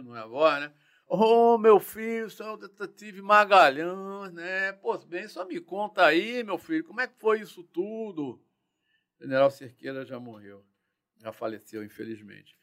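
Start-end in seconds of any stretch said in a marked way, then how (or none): 1.1-8.4 put-on Northeastern accent. General asking the detective what happened, Northeastern accent. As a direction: imitate an old Northeastern general talking down kindly. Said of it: "Aquele sotaque de nordestino".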